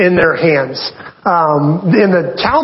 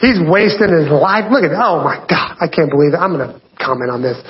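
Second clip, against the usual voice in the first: judgy gossip voice; 2 semitones lower than usual. Retold or imitated. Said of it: "I don't know where the voice came from".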